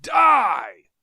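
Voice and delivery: high, loud furious shriek. Acted. Tario shrieking death at his enemies. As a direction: shriek the sentence. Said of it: "he shrieked".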